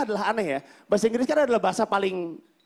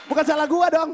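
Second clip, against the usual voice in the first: indignant shout; 6 semitones higher, 3 dB louder than usual. Acted. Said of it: "indignant outburst".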